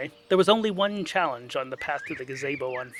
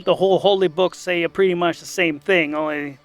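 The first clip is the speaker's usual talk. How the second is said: louder casual rambling priest; 2 semitones higher, 9 dB louder than usual. Acted. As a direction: ramble like a laid-back priest.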